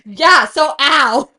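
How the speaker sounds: drawn out. Real, not acted. Agreeing, drawn out.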